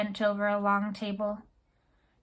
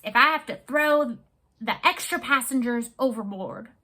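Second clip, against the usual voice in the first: blustering sea captain; 3 dB louder than usual. Acted. Captain rants about the race.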